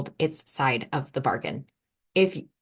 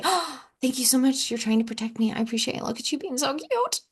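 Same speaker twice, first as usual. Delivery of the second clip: gentle thanks; 5 semitones higher, 4 dB quieter than usual. Retold or imitated. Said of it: "We say".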